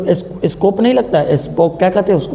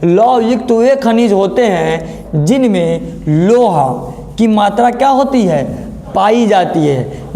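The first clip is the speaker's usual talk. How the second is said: slow dictation; slower than usual. Shown as a demonstration. Teacher dictates a definition slowly.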